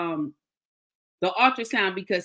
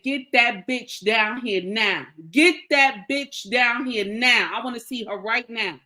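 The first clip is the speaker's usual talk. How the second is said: retold angry demand. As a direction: replay being on fire, leaning on each word. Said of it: "I was so angry".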